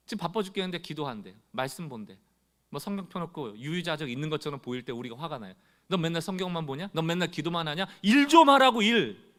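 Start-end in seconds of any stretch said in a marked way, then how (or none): 5.9-9.3 scolding. Retold or imitated. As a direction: nag the idle one to get to work. Scolding a praying church member. (짜증 내며 꾸짖듯)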